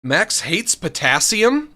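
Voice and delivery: slow incredulous question; disbelieving, drawn out. Real, not acted. Reacting in disbelief.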